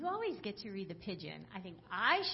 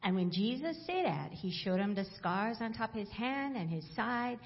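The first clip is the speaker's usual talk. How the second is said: Bible read aloud in Hawaiian Pidgin. Acted. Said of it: "from the Hawaiian Pidgin Bible".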